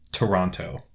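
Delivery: "Toronto" with the second T sounded; pronounced T. Retold or imitated. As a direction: say "Toronto" as tuh-RON-toe. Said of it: "he pronounces it".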